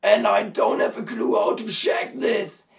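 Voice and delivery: high, loud, strained; fry scream talk. Shown as a demonstration. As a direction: keep shouting through the fry. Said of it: "my hypercompressed fry".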